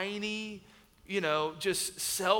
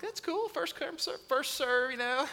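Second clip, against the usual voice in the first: sarcastic; 6 semitones higher, 4 dB quieter than usual. Retold or imitated. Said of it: "I'm like".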